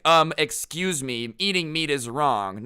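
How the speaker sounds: imitated prissy protest; mock indignant vegan. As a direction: butt in as an offended activist. Vegan guy's indignant objection, acted.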